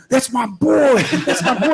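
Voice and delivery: high-pitched imitation of screaming fans; mock crowd scream. Teammate recounting how fans screamed for him, high mock yell. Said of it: "people that were screaming".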